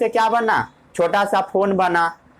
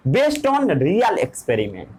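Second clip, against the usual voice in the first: each word drawn out slowly for note-taking; slow dictation; 2 semitones lower, much slower than usual. Shown as a demonstration. Teacher dictating to students, slow and deliberate. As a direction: spell it out word by word so they can write. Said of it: "पढ़िए एक बार definition.".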